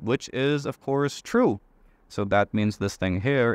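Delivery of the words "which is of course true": rising to a high, pleased "true"; triumphant. Real, not acted. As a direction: sell the payoff with delight. Triumphant check of the solution.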